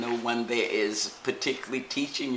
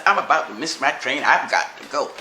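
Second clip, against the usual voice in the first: louder, rushed goodbye; hurried goodbye; 8 dB louder than usual. Retold or imitated. A stranger rushing off to his train, calling out loudly. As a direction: call it out, in a hurry to catch the train.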